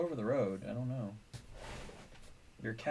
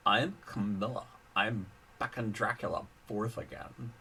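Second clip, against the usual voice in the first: whiny valley-girl princess, lightly voiced; hint of a bratty cartoon princess; Lumpy Space Princess voice. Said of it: "lumpy space Princess Carmilla voice".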